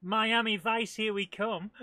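loud, high, breaking into laughter; jubilant shout. Real, not acted. Player racing off in a speedboat, jubilant cry. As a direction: holler it triumphantly, then laugh.

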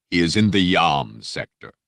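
lightly voiced Dark Lord; silky menacing Vader. Vader dismissing the Jedi, silky and menacing. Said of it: "that silky, menacing voice".

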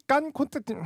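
giggling through the words; laughing. Real, not acted. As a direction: laugh while speaking. (웃으면서 말하기)

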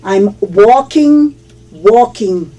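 "walking" said slowly with no L sound; teacher's careful "walking", silent L. Shown as a demonstration. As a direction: demonstrate "walking" as "woking", L left out. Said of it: "no se pronuncia la L".

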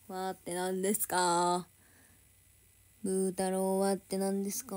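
drawn-out, low singsong question; mock questioning. Streamer quizzing a viewer's odd word, mock questioning. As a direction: stretch every word in a low, teasing chant.

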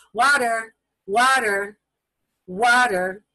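put-on slow, clear repeated word for a child; natural repeated water. Shown as a demonstration. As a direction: model the word calmly, three times. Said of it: "That's how I'm gonna say it".

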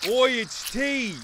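low, soft hammed-up British accent; mock British accent. British character finding tea, soft mock British accent. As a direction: play a British tea drinker, low and quiet. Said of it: "Yo mom's so British!".

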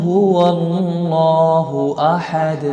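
slow melodic chant; Quran recitation. Acted. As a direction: intone the surah slowly. Full recitation closing.

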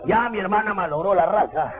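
mock-grave disdain, low; disgusted elder brother. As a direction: complain as the appalled brother. Elder brother laments the ugly suitor.

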